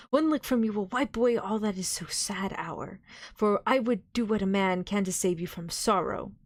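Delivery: pleading, compassionate appeal; full of pity. Acted. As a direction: beseech him with tender pity. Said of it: "with an accent full of pity".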